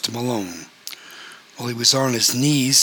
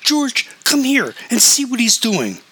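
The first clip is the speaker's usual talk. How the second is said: much higher, louder call; raised volume; 11 semitones higher, 4 dB louder than usual. A narrator's reading. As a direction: shout for George to come see. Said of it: "She raised her volume".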